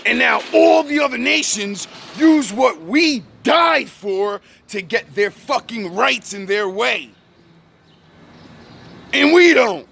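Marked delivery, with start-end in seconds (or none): 0.1-4.4 real furious shout; angry shout. Real, not acted. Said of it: "This is why I get angry". 9.1-9.9 loud, higher angry punch; angry outburst. Real, not acted. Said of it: "This is why I get angry".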